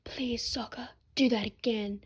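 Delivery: dropped low, soft mock-sultry rasp; low and raspy. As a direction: drop the voice into a low rasp to tease. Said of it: "dropped her voice low and raspy".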